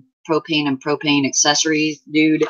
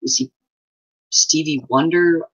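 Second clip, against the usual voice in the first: quoted friend; 3 dB louder than usual. Retold or imitated. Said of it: "I got this email back".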